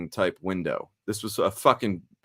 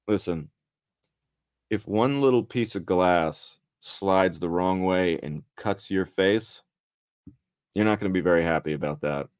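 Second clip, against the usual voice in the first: gentle warning; 4 semitones lower than usual. Retold or imitated. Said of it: "she basically said in a nice way".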